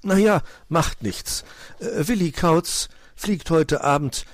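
breezy, untroubled suggestion; casual. A narrator's reading. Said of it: "sagte Puh leichthin".

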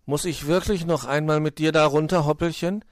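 high, anxious plea; trembling voice. A narrator's reading. Willi dreads riding with Hoppel, trembling plea. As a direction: ask fearfully, pitch rising at the end. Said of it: "fragte Willi mit bebender Stimme".

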